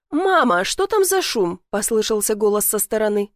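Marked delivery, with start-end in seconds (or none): 0.1-1.6 high-pitched call with a question; calling to mother. A narrator's reading. Son calls to his mother about a noise, high questioning call. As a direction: call out to Mum, puzzled.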